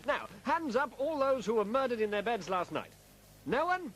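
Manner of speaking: army colonel. Acted. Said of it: "ex-army colonel".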